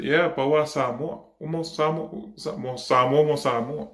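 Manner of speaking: high, insistent imitation of mum; imitating mum. Mum answers back about Samoa, imitated high insistent voice. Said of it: "And Mum said".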